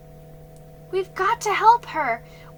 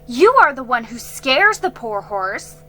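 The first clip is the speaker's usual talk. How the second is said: angry retort; 2 semitones higher, 12 dB louder than usual. A narrator's reading. Girl angrily accusing Jiggy of scaring horse. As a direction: throw the blame back at him. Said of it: "she was angry".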